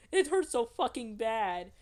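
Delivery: loud, high, slow pained yell; hammed-up scream in labor. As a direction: let the pain tear out of you. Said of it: "screamed out".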